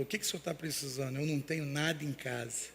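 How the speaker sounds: low, hushed retold exchange; subdued, quietly imitated confession; serious. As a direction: drop right down in pitch and volume. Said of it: "olhou pra ele sério e falou assim".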